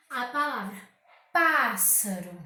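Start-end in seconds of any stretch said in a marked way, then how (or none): 1.3-2.4 "pássaro" lento, com PÁS forte e alongado; ênfase em PÁS. Shown as a demonstration. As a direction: carregue na primeira sílaba de "pássaro". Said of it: "com mais força na palavra". (PÁÁS-saro, sílaba tônica bem marcada)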